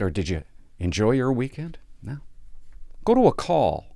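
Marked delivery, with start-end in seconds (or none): 3.0-3.9 dispatch voice. Retold or imitated. Cop radio dispatch voice.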